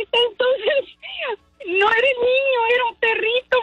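high, breaking laugh through the words; laugh-cry as you explain the mistake; giggling disbelief, almost tearful; laughing while telling. Real, not acted. Laughing over the mix-up.

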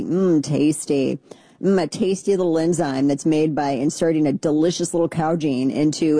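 sarcastic "mm, tasty" relish; sarcastic savoring. Pretend. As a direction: savor each word with mock delight. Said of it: "Oh, lovely".

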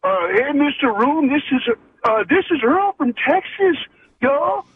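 put-on homemade Texas accent; lightly put-on Texas accent. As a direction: try out a practiced Texas accent. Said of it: "do it in my Texas accent I've been working on".

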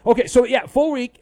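sudden loud, high, excited; loud excited outburst about the schedule; excited burst. Real, not acted. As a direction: blurt it out with a jolt of excitement. Excited outburst about full week.

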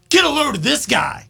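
mocking aside. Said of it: "pointing your finger back ... be like".

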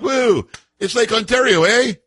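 high, drawn-out Canadian voice with eh; hammy Canadian accent, stretched slow; Canadian accent impression. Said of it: "that's a spot-on impersonation of this guy Ford".

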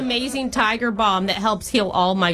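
hammed-up Long Island-Boston-Minnesota mom accent; old Jewish mom accent jumble; horrible jumbled accent. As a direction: play a chatty older girlfriend in a bad regional accent mash-up. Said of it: "doing a horrible accent".

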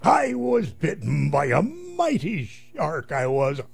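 slow, lightly voiced pirate yarn. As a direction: spin it like an old salt. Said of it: "What happened there".

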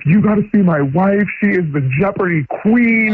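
mildly hammed-up bragging; imitated bragging. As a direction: talk up your wife, imitating a proud husband. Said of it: "my husband has been bragging".

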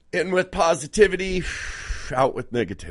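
breathing exercise. Acted. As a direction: coach yourself through a breath. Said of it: "that's the way to breathe right there".

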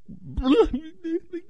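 high, sudden blubbering burst; audible mock crying. Shown as a demonstration. Host showing the cry people would hear, mock wail. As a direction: demonstrate a noisy sob, exaggerated. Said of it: "But when I audibly".

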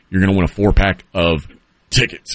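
hiccuping mid-sentence; talking through hiccups. Real, not acted. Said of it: "I've got the, uh, hiccups".

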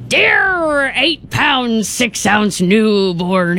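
slow pirate voice. Acted. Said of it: "read you a quote in a pirate voice".

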